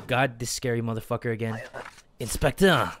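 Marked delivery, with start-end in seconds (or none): 2.2-2.9 sinister official. Acted. Voicing the scary official.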